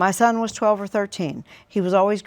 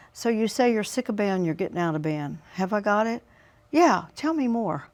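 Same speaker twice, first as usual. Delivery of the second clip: calm mirroring. Shown as a demonstration. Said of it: "some mirroring".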